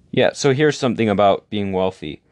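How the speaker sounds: talking through a yawn; stretched, yawning delivery. Real, not acted. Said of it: "I yawned".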